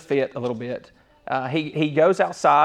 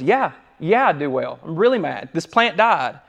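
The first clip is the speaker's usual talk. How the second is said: mock tantrum; 2 semitones higher, 4 dB louder than usual. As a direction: play Jonah pitching a fit over his plant. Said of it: "kinda pitching a fit here".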